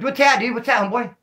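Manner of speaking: sudden high, loud startled questions; jumpy paranoia. Retold or imitated. Mistaking a fire hydrant for an attacker, high startled alarm. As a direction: jump at a shape in the dark.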